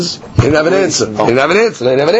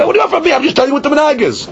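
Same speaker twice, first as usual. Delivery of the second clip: higher, fast indignant comeback; exasperated retort; 6 semitones higher, much faster than usual. Retold or imitated. Rabbi Yohanan snapping back at his questioner, exasperated. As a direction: throw it back at him, fed up.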